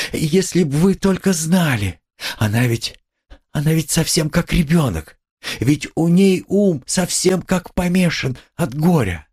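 high, anguished outpouring; desperate plea. A narrator's reading. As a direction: plead in distress for her. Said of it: "точно в отчаянии, волнуясь и страдая".

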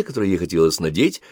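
plain reading voice

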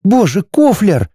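wife rebuking her husband, sharp; sharp exclamation. A narrator's reading. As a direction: snap out his name in shock. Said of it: "резко произнесла Арани".

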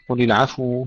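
العفو wrongly said with a vowel on the ف. Shown as a demonstration. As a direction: show the error: move the ف of العفو. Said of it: "فنحرك الفاء".

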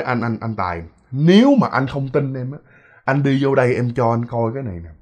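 quiet, hesitant plea to the husband; wife quietly urging her husband to come see; hushed plea. Retold or imitated. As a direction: softly beg him to come and look. Wife pleading with husband Tài.

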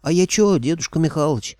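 high, loud aggrieved whine; wailing protest. A narrator's reading. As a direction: protest your innocence at the top of your voice. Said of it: "завопил бес".

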